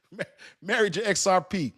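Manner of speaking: laughing. Real, not acted. Laughing through words.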